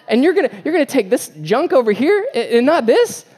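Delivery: high, loud incredulous rant; parent's comic outrage over fast food choice; mock outrage. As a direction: rant at the kids in hammed-up disbelief. Parent ranting about McDonald's choice.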